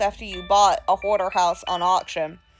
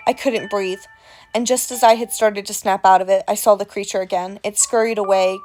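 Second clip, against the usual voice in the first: creepy storyteller voice. Acted. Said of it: "without this accent".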